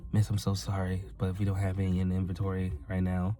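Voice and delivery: soft, understated retold apology; calm. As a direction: apologise gently to a customer. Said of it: "I was as calm as I was".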